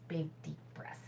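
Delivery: soft, breathy instruction on the exhale. Shown as a demonstration. To the viewers while breathing, soft breathy voice. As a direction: let the words go out on the breath.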